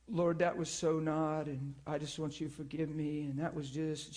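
soft, low private prayer; troubled prayer. Retold or imitated. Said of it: "she says".

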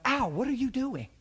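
high surprised call; surprised greeting. Retold or imitated. Greeting a coworker at the march, mock surprise. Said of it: "I run up".

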